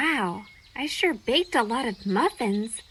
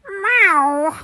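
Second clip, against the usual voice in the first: high cat meow; 5 semitones higher, 7 dB louder than usual. Acted. Cat meows at Fortuna.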